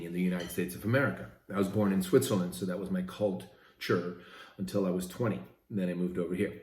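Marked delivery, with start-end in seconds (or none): 3.0-4.2 "culture" broken after cult; split word. Shown as a demonstration. Host on his Swiss upbringing, "culture" split as cult, ture.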